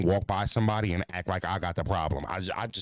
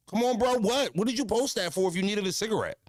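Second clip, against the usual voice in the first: exasperated disbelief; 11 semitones higher than usual. Real, not acted. Ranting at a friend who flexed cash, high and exasperated. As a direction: throw your hands up in disbelief.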